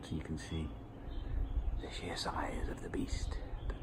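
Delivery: soft unvoiced whisper, close to the mic; hushed whisper. Real, not acted. Filming the spider over the hot tub, hushed whisper. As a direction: keep it hushed so nobody is disturbed.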